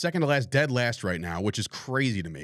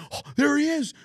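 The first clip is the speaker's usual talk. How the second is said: high, louder mock cheer; mock adoration; 4 dB louder than usual. Host mimicking fans greeting the new hitting coach, mock-thrilled. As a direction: hail him like an overjoyed fan, hammed-up.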